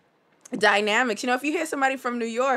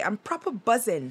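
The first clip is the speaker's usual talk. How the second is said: put-on British accent. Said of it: "Like the British would say".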